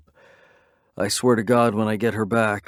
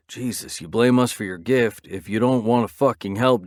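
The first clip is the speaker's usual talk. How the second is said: angry rant; 3 semitones higher, 3 dB louder than usual. Acted. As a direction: tear into her over the phone. Reaper yelling at Seer on phone.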